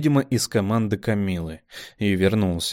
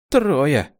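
higher, louder exclamation; shocked; 6 semitones higher, 5 dB louder than usual. A narrator's reading. Kamila realizing her losses, shocked cry. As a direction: blurt in shock.

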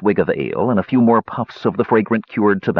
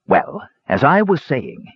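put-on old dwarf voice; 7 semitones higher, slower than usual. Dwarf hermit character voice.

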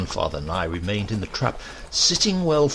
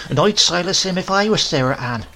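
put-on sharp scornful old woman, a touch higher; a hint of a tart grandmother; 7 semitones higher, 5 dB louder than usual. A narrator's reading. Grandmother scoffing at Silas, sharp and scornful.

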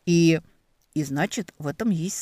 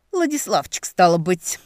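mocking repeat; 6 dB louder than usual. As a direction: sly echo of the name, pitched up.

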